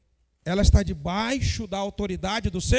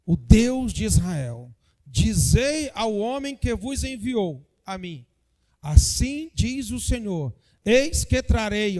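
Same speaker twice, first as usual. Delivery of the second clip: slow, solemn prophetess declaring; prophetic proclamation; slower than usual. Acted. (proclamação lenta e solene)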